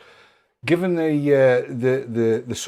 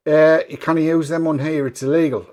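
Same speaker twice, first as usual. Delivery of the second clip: Newcastle lass; 2 semitones higher, 5 dB louder than usual. Retold or imitated. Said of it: "she was Newcastle lass".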